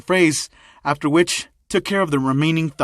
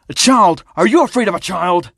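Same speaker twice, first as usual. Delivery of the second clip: louder, higher-pitched incredulous challenge; incredulous scorn; 4 semitones higher, 5 dB louder than usual. Acted. Thug boss challenges his underling about fearing a child, scornful. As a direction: throw it back at them in disbelief.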